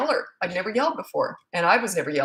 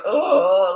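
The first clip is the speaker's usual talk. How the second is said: long, loud guilty "oh"; guilty groan; 6 dB louder than usual. Retold or imitated. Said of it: "That's that guilt".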